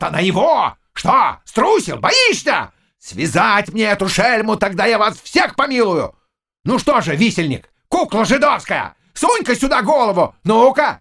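high, furious roaring threats. A narrator's reading. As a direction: roar taunts at Bogun. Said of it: "заревел". (рёвом, с бешеной бранью)

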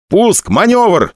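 high, sharp shouted commands; combat callout. Acted. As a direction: bark out the launch warning. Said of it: "скомандовал я".

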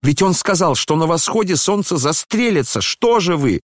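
put-on a girl begging the others to look, in panic; narrated frightened cry. A narrator's reading. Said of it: "вскрикнула Вера ... в чрезвычайном испуге".

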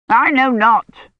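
slow, curt and impatient. A narrator's reading. Bloet cuts off his sister-in-law, impatiently. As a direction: brush her off, short and irritated. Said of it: "he said impatiently".

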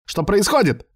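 high, slow puzzled machine; a lost voice from the speakers; confused computer. A narrator's reading. From speakers again.

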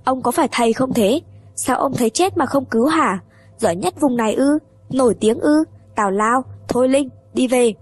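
scornful, indignant rebuke, pitched a bit up; scolding a fraudulent fortune teller with contempt; losing her temper. Acted. Trang berating the monk who refuses help, indignant anger. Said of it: "Trang dường như mất bình tĩnh".

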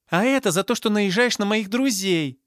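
loud, high, righteous fury; acted vengeful shout. A narrator's reading. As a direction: shout it high, drawing out the ending. Heroine strikes third time. (яростный громкий крик мести)

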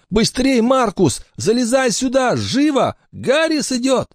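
high, frantic hurry-up; panicked urging. Acted. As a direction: urge him on in a panic. Urging stuck friend in panic.

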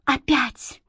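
frightened mother crying out; mother's horrified cry. A narrator's reading. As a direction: gasp it out as the mother, seeing the old man. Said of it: "эхом отозвалась Света".

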